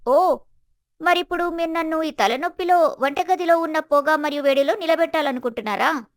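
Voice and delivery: acted haughty outrage; harsh, insulting. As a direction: protest as if deeply put upon. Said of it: "స్వప్న యొక్క కఠినమైన, అవమానకరమైన మాటలు".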